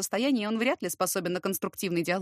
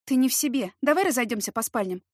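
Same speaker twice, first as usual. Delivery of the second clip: peaceable; 3 semitones higher, 4 dB louder than usual. Acted. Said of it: "предложила я миролюбиво".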